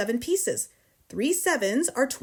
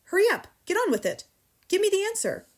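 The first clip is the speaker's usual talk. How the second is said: high, pressing urgency; impatient demand; 10 semitones higher, 4 dB louder, faster than usual. A narrator's reading. Headmistress badgers pupil for the answer, impatiently. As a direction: hurry the pupil along, pitch jumping up.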